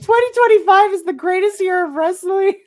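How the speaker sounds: high, loud gushing proclamation; thrilled fan declaring the year; excited. Retold or imitated. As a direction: announce it like the best news ever. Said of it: "I was like".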